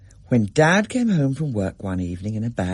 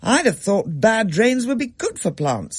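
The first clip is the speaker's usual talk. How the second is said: Mum; 10 semitones higher than usual. A narrator's reading. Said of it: "said Mum".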